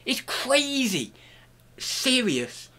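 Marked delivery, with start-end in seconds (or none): 1.8-2.7 high, slow, solemn "Serious". Shown as a demonstration. Contrasting serious and not serious, a high slow "Serious". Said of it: "I'm so serious about it that I'm not serious".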